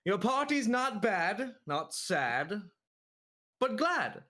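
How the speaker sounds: sing-song rhyming storybook voice; Dr. Seuss rhyming voice. Acted. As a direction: recite in bouncy rhyming verse.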